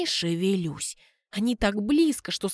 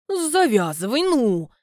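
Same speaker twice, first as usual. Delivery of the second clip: louder curt order; resisting; 3 semitones higher, 5 dB louder, slower than usual. Acted. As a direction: push him off. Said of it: "сопротивляется Люда".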